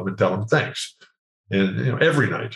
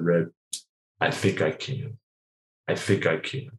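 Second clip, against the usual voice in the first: soft, lower, near-whispered hope; sad soft plea; 5 semitones lower, 7 dB quieter than usual. Retold or imitated. Injured player answering his coach, soft and hushed. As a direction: quietly beg for one more chance. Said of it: "with the sad, soft eyes".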